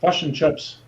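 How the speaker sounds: fish and chips with a New Zealand vowel, fush and chups; Kiwi accent. Shown as a demonstration. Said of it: "That's how they say fish and chips".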